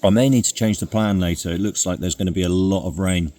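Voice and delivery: eating while talking; mouth full. Real, not acted. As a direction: speak through a mouthful of porridge. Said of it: "talking with my mouth full".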